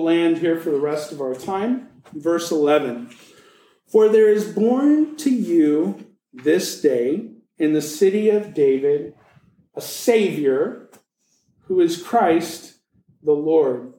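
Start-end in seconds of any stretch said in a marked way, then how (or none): 3.9-13.9 scripture reading. Acted. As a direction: let each word of the verse land.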